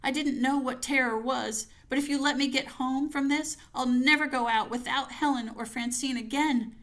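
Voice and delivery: panicked prayer. Acted. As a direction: beg for safety as you run. Fleeing home, praying in panic.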